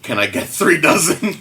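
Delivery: insistent repeat. Acted. Repeats order after hearing price.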